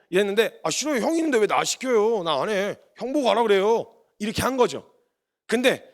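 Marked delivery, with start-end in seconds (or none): 0.6-3.9 mock whiny younger-son protest; acted-out sulky backtalk; bratty refusal. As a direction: protest like a put-upon little brother. Son refusing father's request, retold.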